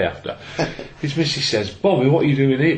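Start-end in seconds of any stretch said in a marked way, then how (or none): 1.7-2.8 higher-pitched puzzled question; wife's retold surprise. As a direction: imitate a wife caught off guard. Surprised wife voiced in anecdote.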